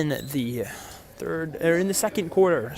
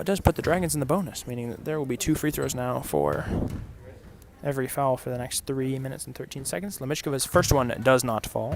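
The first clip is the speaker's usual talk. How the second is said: golf commentator; 2 semitones lower, 6 dB quieter than usual. Real, not acted. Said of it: "I feel like I'm talking like a golf commentator".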